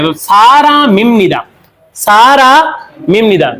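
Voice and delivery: सारा मिम निदा said slowly, m carried over; slow linked pronunciation. Shown as a demonstration. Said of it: "निदा का निदा आएगा". (सारा मिम निदा धीरे जोड़कर बोलें)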